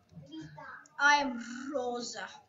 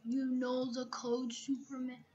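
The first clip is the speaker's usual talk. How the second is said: whisper; 2 semitones lower, 10 dB quieter than usual. Real, not acted. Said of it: "you so quiet".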